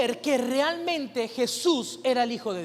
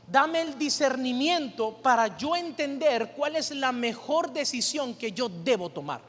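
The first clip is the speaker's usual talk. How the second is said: earnest prayer; slower than usual. Shown as a demonstration. Pastor modelling how to pray, slow earnest plea. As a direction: pray it slowly, drawing out revélame.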